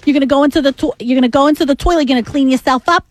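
bossy Long Island woman; Long Island accent. Acted. Co-host plays an abrasive Hempstead woman, Long Island accent. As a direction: order him about in a Long Island accent. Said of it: "abrasive woman from, you know, Hempstead".

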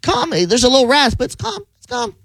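calm rasp imitation. Co-host imitating the host's natural voice, calm and raspy. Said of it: "What's his natural accent?".

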